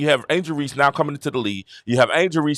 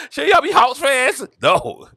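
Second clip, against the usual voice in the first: put-on higher kid voice, a bit slow; puzzled kid; 11 semitones higher, slower than usual. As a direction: ask it like a confused kid, a little drawn. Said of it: "I was like".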